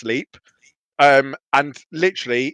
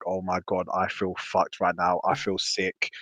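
retold queasy moan; 8 semitones lower, 10 dB quieter than usual. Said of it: "I'm like".

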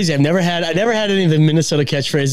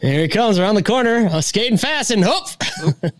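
raised, slowed mock hockey commentator; mock hockey play-by-play; 6 semitones higher than usual. Joking to cohost, imitating a hockey announcer. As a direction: call a Minnesota hockey check playfully. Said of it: "The joke is that".

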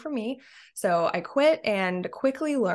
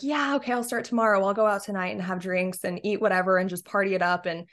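carefree excuse. Retold or imitated. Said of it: "so much more fun to say".

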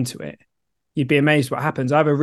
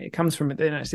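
softer, quieter repeat; 7 dB quieter than usual. Real, not acted. Host repeating his point to listener, quieter. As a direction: let the repeat sink in gently. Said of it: "repeats the phrase softer".

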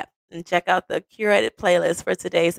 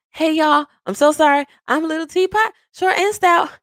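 high, breathless mock apology; imitating a flustered late arrival; out of breath; 9 semitones higher than usual. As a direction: act winded while singsonging an excuse. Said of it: "out of breath".

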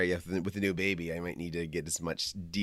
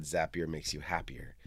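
whispered motto; 5 semitones lower, 8 dB quieter than usual. Retold or imitated. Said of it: "they had a motto that said".

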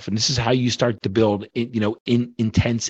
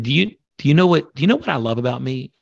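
insistent repeat; 3 semitones higher, faster than usual. Retold or imitated. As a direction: push her to answer this time. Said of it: "I, I said".

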